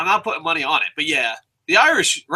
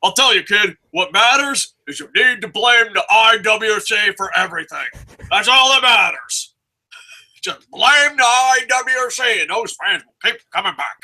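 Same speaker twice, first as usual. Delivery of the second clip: Vince impression. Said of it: "talking like this".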